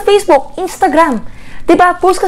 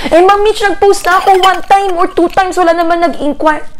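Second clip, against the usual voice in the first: 1 mock discouraged operator; 5 semitones higher than usual.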